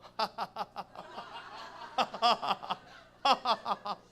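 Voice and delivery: loud, staccato cackling laughter; real, extended laughing fit; long laugh. Real, not acted. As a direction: burst out laughing at yourself. Laughs after her acted rant.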